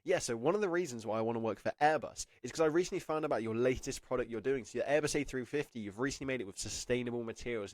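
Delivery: brisk, upbeat interview pitch; energy switched on. Shown as a demonstration. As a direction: flip the switch and sell it. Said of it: "okay, switch on your energy".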